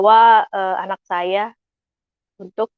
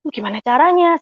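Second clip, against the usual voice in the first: retold mild dismay, pitched up; higher, puzzled wondering aloud; confused; 6 semitones higher than usual. Wife asked to deliver a tithe, confused. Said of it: "Saya bingung gitu".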